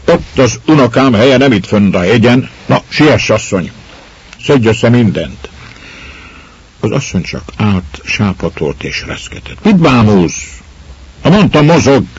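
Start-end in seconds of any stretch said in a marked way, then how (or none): 0.1-5.5 raised, impatient lord commanding her; angry order. Acted. Lord bullies woman to pack. 9.6-12.0 high, loud barked command; furious shout. Acted. Lord shouts at staring woman.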